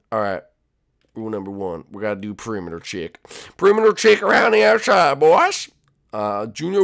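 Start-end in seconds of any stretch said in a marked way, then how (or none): 3.6-5.7 army voice. Acted. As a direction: bark it at the boys like a drill sergeant. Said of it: "army voice".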